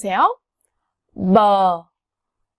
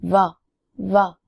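버 stretched slowly and lower; slow v demo; 3 semitones lower, much slower than usual. Shown as a demonstration. Teacher slowly models 버 after very. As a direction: draw out 버 slowly. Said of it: "very 생각하면 돼요".

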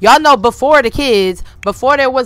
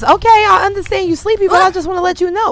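voicing teen Marley; 7 semitones higher, faster than usual. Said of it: "Marley says".

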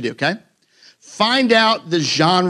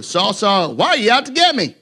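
voice from heaven. Acted. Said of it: "I heard a voice in Hebrew".

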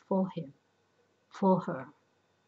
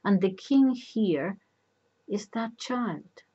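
mildly raised, emphatic insistence; insistent; 4 semitones higher, 6 dB louder than usual. A narrator's reading. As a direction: press the point, pitched a little higher. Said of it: "the messenger insisted".

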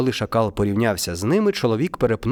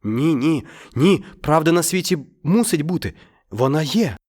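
confident; 5 semitones higher than usual. Acted. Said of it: "впевнено мовив чоловік".

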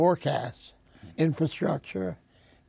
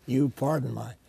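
hoarse, rough-edged interview voice. Real, not acted. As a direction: speak through a sore, hoarse throat. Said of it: "pardon my, my hoarse voice today".

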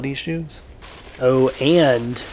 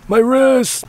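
pained cry; 10 semitones higher, 7 dB louder than usual. Real, not acted. Complaining while mowing.

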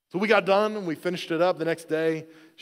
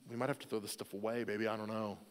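softer, lower, hedging; hesitant dad; 5 semitones lower, 11 dB quieter, faster than usual. Retold or imitated. Dad to upset daughter about ruined stuff, hesitant and quiet. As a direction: break bad news gently, quietly. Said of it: "she was upset. I said".

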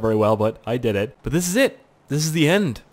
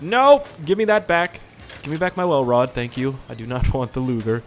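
mock protest. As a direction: plead like the dead man's ghost. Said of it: "so I'm like".

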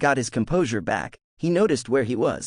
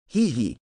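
giggle. A narrator's reading. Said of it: "Loki giggled".

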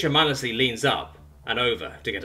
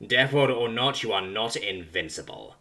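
ranting. Acted. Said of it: "it rants".

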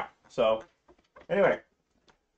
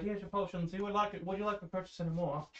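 New Orleans Southern; 5 semitones higher, 6 dB quieter than usual. Acted. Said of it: "New Orleans Southern".

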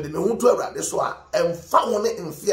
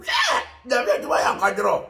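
preacher's shout; 4 semitones higher than usual. Real, not acted. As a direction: call out Hwɛ to wake the crowd. Preacher exclaims mid-sermon.

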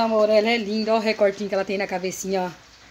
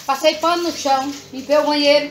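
scolding; 4 semitones higher, 4 dB louder than usual. Real, not acted. Scolding son about chores.

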